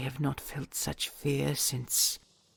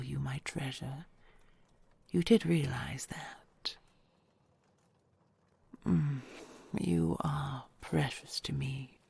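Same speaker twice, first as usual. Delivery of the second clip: hushed, intimate whisper to a loved one; tender whisper. Acted. Dragon whispering vows to her treasure.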